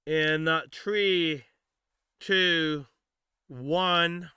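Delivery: countdown. Real, not acted. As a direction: count down to the wheel spin. Counting down to wheel spin.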